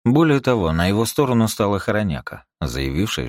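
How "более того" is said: plain reading voice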